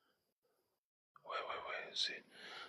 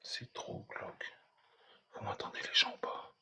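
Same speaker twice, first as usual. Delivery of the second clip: hushed whisper, can't speak up; 8 semitones higher than usual. Real, not acted. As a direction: keep it to a whisper in the dark. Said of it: "Je peux pas parler plus fort".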